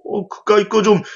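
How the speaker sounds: lightly acted brash assurance; proud confidence. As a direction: imitate chest-thumping, self-assured disciples. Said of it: "그렇게 떳떳하게 가슴을 피면서".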